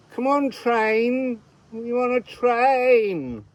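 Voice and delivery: high, loud Welsh call, slow; Welsh accent. Pretend. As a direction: coax the train in a Welsh lilt. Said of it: "I'm not very good at Welsh accent".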